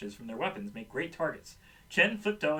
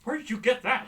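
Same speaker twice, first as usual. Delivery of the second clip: higher, louder disbelieving demand; indignant question; 8 semitones higher, 7 dB louder than usual. A narrator's reading. Chen catching Flipto with a snack, indignant question.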